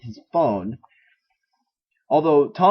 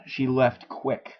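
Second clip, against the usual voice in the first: slowed, drawn-out quoted line in a slightly different voice; Harley's reply; slower than usual. Acted. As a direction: let the words stretch out lazily, as Harley.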